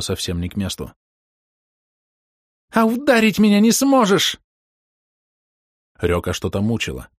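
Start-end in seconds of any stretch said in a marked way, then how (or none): 2.7-4.4 put-on a young woman's high taunting jeer; high girlish taunt. A narrator's reading. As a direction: dare him, voice pitched way up. Рёка taunting, voiced by narrator.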